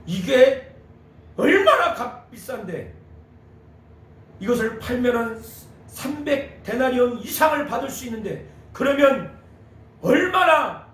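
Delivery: voicing the disciples' indignant protest; mock outrage with emphatic bursts; indignant disciples. Disciples grumbling among themselves about costly perfume, indignant. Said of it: "화가 난 거예요".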